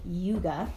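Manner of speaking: "Yuga" with a long oo in place of the o of yoga; toddler's mispronunciation. Retold or imitated. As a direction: say "Yuga" as YOO-guh, like a toddler. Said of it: "This little baby likes to call it".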